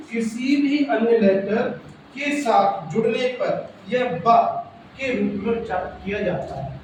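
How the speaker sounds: slow, drawn-out dictation pace. Shown as a demonstration. Teacher dictating the B rule to pupils, slow and deliberate. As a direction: read the rule slowly so they can write it.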